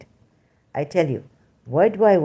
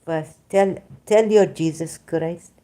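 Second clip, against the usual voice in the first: normal talking voice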